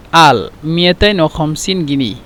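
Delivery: "মিয়াতাইন ও খামসিন গিনি" said as Arabic, two hundred fifty pounds; teacher demonstrating an Arabic price phrase; Egyptian Arabic numbers. Shown as a demonstration. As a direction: spell out the Arabic price for students. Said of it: "মানে দুশো পঞ্চাশ".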